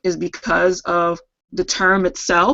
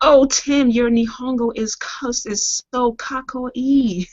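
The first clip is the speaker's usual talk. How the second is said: excited anime fan; 6 semitones higher, slower than usual. Pretend. Joking anime Japanese.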